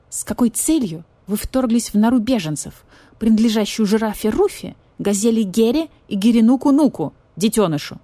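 icy interrogation voice; cold brittle frosty whisper. Acted. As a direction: ask it coldly, no warmth. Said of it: "ледяным голосом продолжил допрос барсукот".

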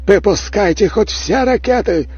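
furious high thundering roar; booming voice from sky. A narrator's reading. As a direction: rage at the enemy from the throne. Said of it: "прогремел голос императора".

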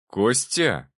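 Костя said firm and hard-edged; steel in the voice. Acted. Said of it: "я добавил в голос немного металла".

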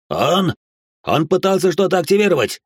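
громкий высокий обвиняющий крик; заори на мальчика, указывая на него. Acted. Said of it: "заорал кто-то". (яростный крик каннибала)

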